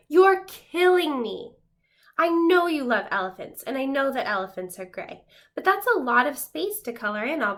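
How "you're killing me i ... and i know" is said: overworked crayon pleading with Duncan, exasperated; exasperated complaint. Acted. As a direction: drag it out like you're worn to the bone. Tired gray crayon complains.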